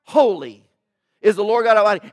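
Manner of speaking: loud proclamation of praise; crying out. Acted. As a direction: declare it out loud to the heavens. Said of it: "they're crying out the infinite holiness".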